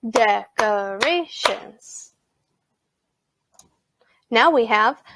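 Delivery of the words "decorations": "decorations" slowly in four beats; syllable by syllable. Shown as a demonstration. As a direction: separate each syllable of "decorations". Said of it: "Clap that with me now".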